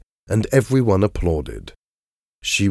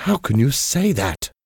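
exclaimed; 7 semitones higher than usual. A narrator's reading. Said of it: "Dorian exclaimed".

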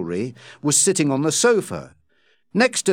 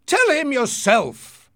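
angry shout; 11 semitones higher, slower than usual. Acted. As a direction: throw it back at her, angry. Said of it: "he shouted".

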